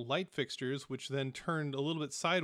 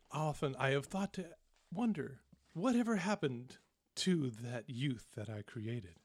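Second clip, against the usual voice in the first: sing-song father. Acted. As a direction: croon at him like a lullaby, lightly voiced. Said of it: "sing-song quality to it".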